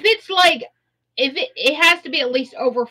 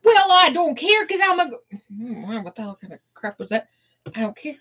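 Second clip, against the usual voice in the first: sassy attitude. Acted. Brushing off her nagging about corpses, sassy. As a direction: toss it off like nothing matters. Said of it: "we have to get that attitude with that accent".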